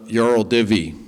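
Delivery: "Yarl Divi" in a Russian accent. Shown as a demonstration. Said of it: "It's my best Russian accent".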